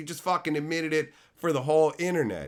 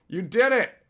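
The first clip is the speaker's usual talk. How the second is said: excited; 6 semitones higher, 5 dB louder than usual. Shown as a demonstration. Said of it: "You did it, Shelton".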